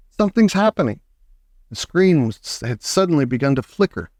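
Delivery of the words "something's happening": excited. A narrator's reading. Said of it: "said Mister Wonka".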